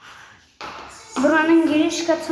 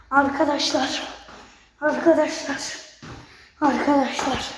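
panting between words; breathless after running; out of breath. Real, not acted. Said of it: "Nefes nefese kaldım ya".

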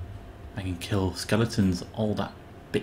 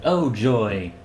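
sarcastic. Pretend. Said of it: "said sarcastically".

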